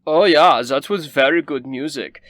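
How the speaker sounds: high, loud snooty noble; a pompous rich lady fawning on a guest; Rabaya's voice. Acted. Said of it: "Rabaya says".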